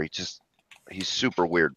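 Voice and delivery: a quick whispered aside. Real, not acted. Describing his girlfriend's dog, a sudden whispered aside. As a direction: drop to a whisper for a moment.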